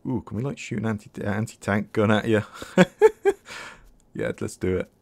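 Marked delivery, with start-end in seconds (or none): 2.5-3.7 squealing burst of laughter; high laugh. Real, not acted. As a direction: giggle up high. Laughs at the anti-tank idea.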